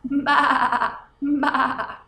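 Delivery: mock lamb bleating through a laugh. Teacher bleating like the lamb, half laughing. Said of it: "it makes the sound".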